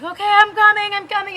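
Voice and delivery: retold girlfriend. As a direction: lightly voice her hurried reassurance. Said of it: "And then she's like".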